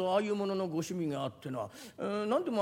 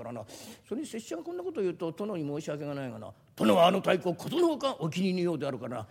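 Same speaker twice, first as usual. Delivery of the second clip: low, measured samurai voice; a pompous retainer talking down to a merchant; 7 semitones lower, 4 dB quieter than usual. Acted. (低めの武士の声)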